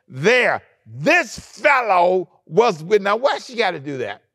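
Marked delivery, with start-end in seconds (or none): 0.1-3.0 put-on drawn-out, higher accusing servant girl; slow and pointed, higher, like a gossiping girl; lightly voiced tattling servant girl. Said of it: "and said to the people".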